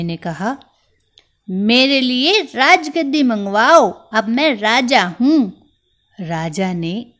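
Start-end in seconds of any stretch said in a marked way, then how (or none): 1.5-5.6 bossy mouse king. Acted. Mouse demands a throne.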